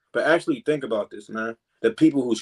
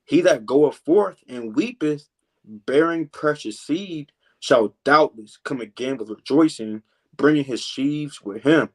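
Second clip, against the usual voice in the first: put-on slow, measured reading of an old verse; slow scripture reading; slower than usual. Shown as a demonstration. Preacher reads the verse to the brothers, slowly. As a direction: read each line slowly, like scripture aloud. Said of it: "verse six".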